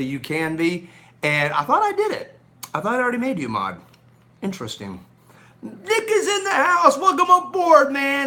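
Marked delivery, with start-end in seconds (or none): 5.6-8.3 high, loud hype-man welcome; louder, higher welcome for a new viewer; excited announcement. Real, not acted. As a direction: announce him like he's arriving on stage.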